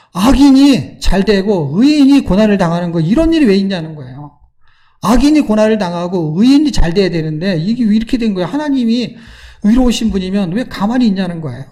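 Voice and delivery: retold grievance, pressed out with energy; pouring out complaint. Preacher voices Habakkuk's complaint to God, mildly indignant. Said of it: "그래갖고 막 토해냅니다".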